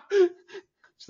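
high laughing. Real, not acted. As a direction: laugh through it. Laughing hard.

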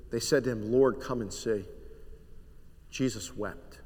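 soft, low reading of the weeping scene; hushed scripture reading. Acted. Reads the scripture softly.

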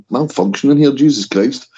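slurring after too many beers; slightly slurred, tipsy speech. Real, not acted. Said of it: "You're slurring your words".

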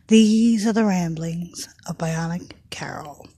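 breathy whispered show name; whispered title. Acted. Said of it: "I think I screwed that up a bit".

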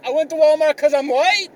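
high-pitched mock outrage, rising questions; fired up. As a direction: rant indignantly at an absurd accusation. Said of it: "I got a little fired up about that".

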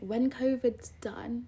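slow, hushed vow; conspiratorial whisper. Pretend. Vowing to a friend about life after covid, slow whisper. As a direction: whisper it slowly like a grave promise.

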